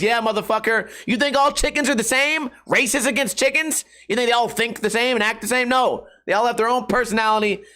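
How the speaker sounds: worked-up mock outrage; mock indignation. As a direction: indignantly challenge them, half joking. Mock-indignant challenge defending chickens as individuals.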